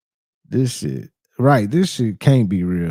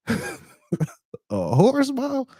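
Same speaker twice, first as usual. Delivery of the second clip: much higher, very slow stretched disbelief; incredulous; 14 semitones higher, much slower than usual. Real, not acted. Streamer reacting to the horse teeth theory, slow high incredulity. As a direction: draw it out like you can't believe it.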